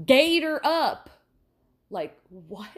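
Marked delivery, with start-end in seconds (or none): 0.1-1.1 mock sign shout. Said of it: "letters that just said".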